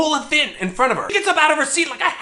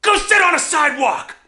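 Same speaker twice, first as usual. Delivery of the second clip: taunting yell; 5 semitones higher than usual. Retold or imitated. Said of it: "yell things at me".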